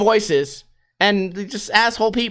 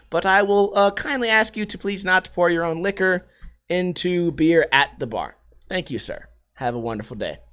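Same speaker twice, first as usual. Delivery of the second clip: lower, softly courteous server; suddenly nice waiter; 3 semitones lower, 4 dB quieter than usual. Retold or imitated. Waiter asking customer not to pour liquor, nice. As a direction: lay on gentle, exaggerated politeness. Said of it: "To suddenly get nice".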